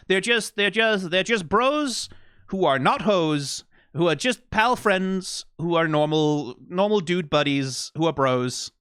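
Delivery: sarcastic denial, hammed up; mock insistence. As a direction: protest too much that they're just pals. Mock insistence they're just friends.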